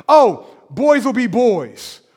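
slow, shrugging mock cliché; dismissive excuse. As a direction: drawl out the lazy excuse. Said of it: "What do we say?".

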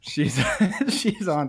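real nervous laughter through "she's on"; can't stop laughing mid-story. Real, not acted. Retelling the guard's sad news, helplessly laughing. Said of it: "don't know why I'm laughing".

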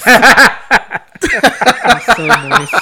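loud, very slow lecherous moan; greedy sexy voice. Pretend. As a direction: ham up a creepy come-on. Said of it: "That is Greedy Sexy Voice".

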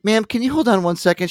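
high, polite phone voice; imitated ex excusing herself to a client; ex on a client call.

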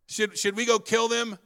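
preacher mocking the disciples' eager question; incredulous repeat. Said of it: "You can't make that up".

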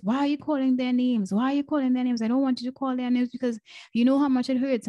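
quick, insistent retold protest; imitated child's protest. Daughter protests at hearing the names.

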